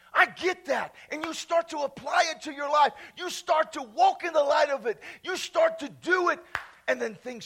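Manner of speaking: driving, urgent sermon delivery; emphatic preaching. Real, not acted. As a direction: press the point on the congregation. Preaches at full force.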